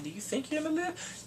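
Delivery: soft voice climbing very high; taunting villain. Retold or imitated. Kidnapper mocking the captive's hopes, high soft taunt. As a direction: taunt softly in a high put-on voice.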